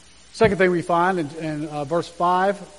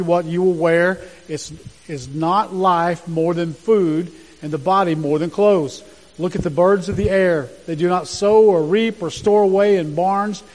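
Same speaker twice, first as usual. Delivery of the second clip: louder, emphatic Bible reading; scripture reading; 4 dB louder than usual. Acted. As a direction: proclaim the passage to the congregation. Reads Matthew passage aloud.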